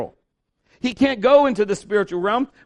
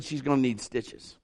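a lower, softer confidential aside; quiet aside; 8 semitones lower, 8 dB quieter than usual. Retold or imitated. Father quietly telling mother about stitches, lower and softer. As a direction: tell the wife without scaring the child.

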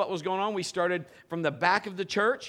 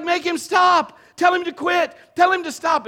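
high, loud, panicked shouting; frantic shout; 12 semitones higher, 10 dB louder than usual. Retold or imitated. Frightened woman shouts at Pastor Kim, high panic. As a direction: yell begging someone to make it stop. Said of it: "she's like".

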